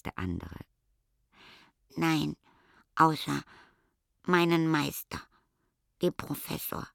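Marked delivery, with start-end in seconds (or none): 2.0-6.9 hoch, leiser werdend bis zum Hauch; trauriger Stichkopf. A narrator's reading. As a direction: gesteh traurig, dass du vergessen wurdest. Stichkopf traurig vom Meister. (hoch, traurig und verhauchend)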